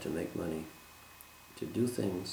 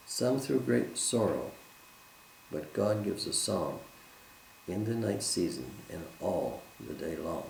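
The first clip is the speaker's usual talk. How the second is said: measured reading of a hymn chorus; hymn recitation. Acted. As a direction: recite it line by line, pausing after each.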